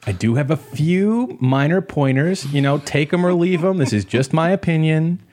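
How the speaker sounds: mock supportive. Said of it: "or us going".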